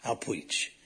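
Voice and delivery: imitating a stammer. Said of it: "I said".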